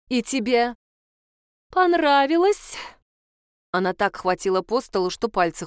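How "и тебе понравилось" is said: incredulous teacher. Acted. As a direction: draw it out, almost mocking. Teacher interrogating pupil. (недоверчиво и протяжно)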